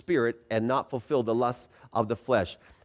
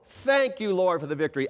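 enthusiastic; 3 semitones higher than usual. Shown as a demonstration. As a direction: thank with real conviction. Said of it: "with enthusiasm".

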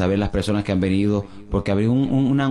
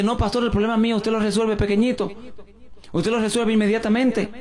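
much higher, pleading woman's voice; insistent woman; 10 semitones higher than usual. Retold or imitated. Pastor mimics a pushy woman who demands to be seen now. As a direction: push the pastor to see her right away.

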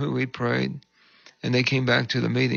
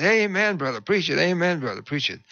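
lightly hammed church amen, pitched up at first; retold amen-corner cheer; 5 semitones higher than usual. Woman in the amen corner cheering on the preacher, mock enthusiastic. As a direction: call it out like an eager congregant.

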